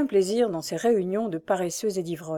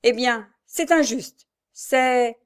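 timid protest; 4 semitones higher, 4 dB louder, much slower than usual. A narrator's reading. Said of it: "n'osait pas achever".

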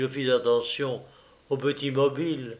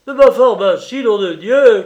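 much louder, higher angry yell; furious shout; 8 semitones higher, 13 dB louder than usual. Acted. Surgeon yelling at the orderly for his lost kit, furious shout. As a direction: bellow at the orderly in rage. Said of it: "Très en colère".

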